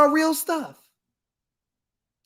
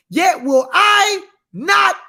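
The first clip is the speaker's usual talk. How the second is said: slow, shouted and higher; preached shout; 4 semitones higher, 3 dB louder, much slower than usual. Real, not acted. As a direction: proclaim God's promise at full force. Climax of scripture reading.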